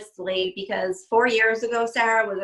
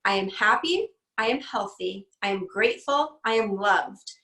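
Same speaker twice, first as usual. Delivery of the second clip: mantra recital. Shown as a demonstration. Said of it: "I've developed a mantra".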